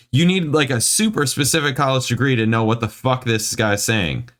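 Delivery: high, indignant complaint; exasperated rant. Real, not acted. Reader complains the review needs a degree, exasperated. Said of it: "this makes me mad".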